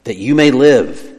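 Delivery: slow phrase landing on "live"; "live" drawn out with emphasis; stress on live. Shown as a demonstration. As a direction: lean on the final word "live". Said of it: "The emphasis here is on the word live".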